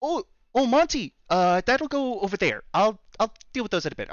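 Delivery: busy store owner with a put-on Canadian accent. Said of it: "I am trying to do a Canadian accent".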